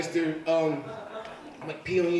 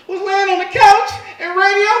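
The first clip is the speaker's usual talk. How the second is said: put-on much higher, loud kid voice; teen son voice; 14 semitones higher, 11 dB louder than usual. Thirteen-year-old explaining to dad, high kid voice. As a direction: blurt it like an excited kid. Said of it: "He's like".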